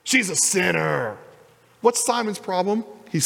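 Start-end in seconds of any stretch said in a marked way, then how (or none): 0.0-1.2 a slow, mildly disdainful "She's a sinner."; lightly mock the judgy tone of "She's a sinner."; sneering accent. Simon judging the woman, slow mildly sneering "She's a sinner.". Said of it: "You gotta say it with that accent".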